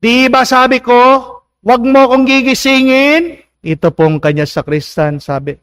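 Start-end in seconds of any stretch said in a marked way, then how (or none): 0.0-3.4 higher, louder irritated yell from bed; a priest woken from sleep snaps at his sacristan; annoyed shout. Retold or imitated. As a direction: scold him for waking you. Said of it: "Sumigaw na naman po yung pare".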